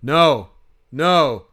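mock alarmed heckler, lightly put on; floppy hat guy. Fan imitates a man scolding the video board, mock dismay. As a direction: object out loud, as if at a screen. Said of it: "floppy hat guy is going like".

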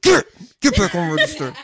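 put-on boss voice, amused; mock boss voice. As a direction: order staff back, half laughing. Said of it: "I had that voice too".

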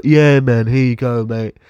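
casual put-on Cockney chat; fake Cockney accent. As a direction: pass yourself off as a Cockney. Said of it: "Cockney one down".

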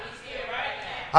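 soft breathy whisper; whispered echo. Acted. Preacher whispering the echo back to the church. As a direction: hush it back like a secret.

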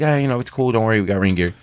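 easygoing, gentle reassurance; retold soothing of a worried friend; nice. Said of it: "I was nice".

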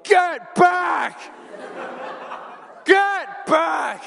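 high, loud guttural shout; shouting at the dog. Retold or imitated. Husband shouting down a charging dog, loud guttural shout. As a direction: roar it to make the dog back off. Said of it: "I just shout at this dog".

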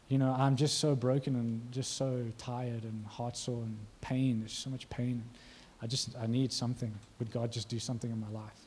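soft, low and heartsore; quietly pleading, a touch broken; weary, hurting. Acted. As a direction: lightly act out a worn-out, pained plea. Acting a worn-out, hurting churchgoer.

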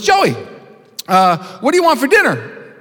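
high, sugary mom voice; sweet mom voice. Retold or imitated. Doting mom asking her only child about dinner, high and sweet. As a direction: coo it like a doting mother. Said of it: "Joey's mom walks up to him and says".

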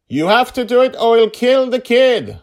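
high, loud panicked order; yelled. A narrator's reading. Father yells at daughter to save the child, loud yell. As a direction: scream the threat at her. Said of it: "Dragonfather yelled".

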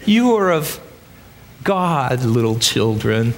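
a hint of a gentle great-grandfather; old grandpa voice. John soothing frightened believers, lightly voiced old grandpa. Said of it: "Can you hear his old grandpa voice?".

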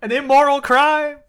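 hint of a whining ghost. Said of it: "why we are doing a ghost voice".

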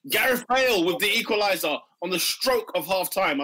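playful breaking-news announcement; mock news flash. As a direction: announce a goal like a live reporter. Mock live goal bulletin.

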